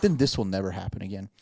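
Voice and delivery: understated sarcastic payoff. Retold or imitated. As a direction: retell it with dry mock helpfulness. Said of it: "I said it just like that".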